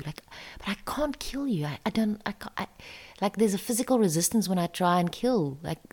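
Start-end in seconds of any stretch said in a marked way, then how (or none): 0.0-2.7 breathless whisper, voice gives out; whispered pleading. Retold or imitated. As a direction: whisper it, too afraid to go on.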